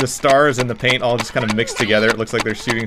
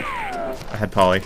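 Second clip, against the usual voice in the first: parrot voice; 6 dB quieter, slower than usual. Pretend. Imitating a parrot guest.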